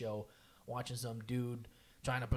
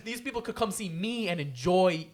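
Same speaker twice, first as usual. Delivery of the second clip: higher, heated comic rant; pent-up venting; 4 semitones higher, 5 dB louder than usual. Retold or imitated. Performer resenting whoever spoils the show, venting. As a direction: pour out built-up grievance at a bad act. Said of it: "You just got a lot off your chest".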